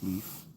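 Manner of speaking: Leif said like "leaf"; family pronunciation. Shown as a demonstration. Reader names the saga he calls this, Leif as "leaf". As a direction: say Leif with a long ee vowel. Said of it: "but we pronounce it Leif".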